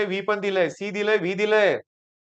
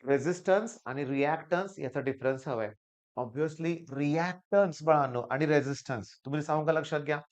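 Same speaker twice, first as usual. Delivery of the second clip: speaking softer; 4 semitones lower, 5 dB quieter than usual. Real, not acted. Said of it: "जरा हळू बोलायला सुरुवात करतो".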